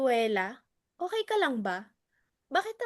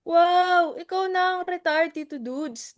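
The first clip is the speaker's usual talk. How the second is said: sarcastic wow; 5 semitones higher, 8 dB louder than usual. Acted. Sarcastic jab at Tito Dudes.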